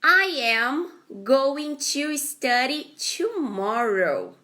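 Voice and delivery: slow, clear model reading; careful teacher read-aloud; slow model sentence. Shown as a demonstration. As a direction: read it slowly for students. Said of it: "first sentence".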